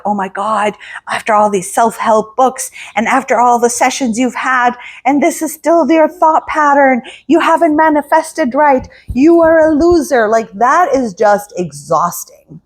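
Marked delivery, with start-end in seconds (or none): 0.0-10.3 inner critic scolding. Retold or imitated. Inner critic berating someone who hasn't manifested right, rising scold. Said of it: "adding more language like".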